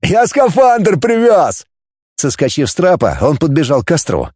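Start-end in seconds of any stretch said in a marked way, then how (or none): 0.0-1.7 joyful hollering; excited shout. A narrator's reading. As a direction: shout the news from afar. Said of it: "он закричал".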